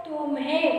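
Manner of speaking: तुम्हें eased out with no pressure, lifting at the end; no stress. Shown as a demonstration. Teacher asking if any pressure fell, तुम्हें said unstressed. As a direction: say तुम्हें lightly, no push on तु. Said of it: "क्या जोर पड़ा इस पे".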